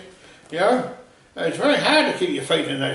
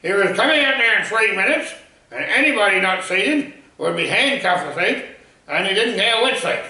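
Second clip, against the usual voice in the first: retold announcement shout; 4 semitones higher than usual. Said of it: "She screamed into the mic".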